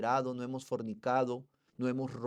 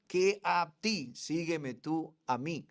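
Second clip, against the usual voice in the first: slow solemn command; 5 semitones higher, 3 dB louder, slower than usual. Acted. The Lord's reply voiced.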